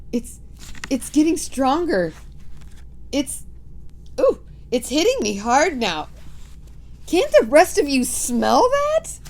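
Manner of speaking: high, loud witch; urgent witch sniffing the air. Acted. Mildred sniffing.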